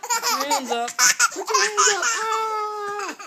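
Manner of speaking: giggly tickle attack. Real, not acted. Playful tickling, laughing.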